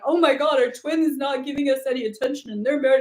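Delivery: mock upset. Host mimicking upset women on the journey, mock upset. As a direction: lightly act out being upset over a twin. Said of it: "instead of being upset".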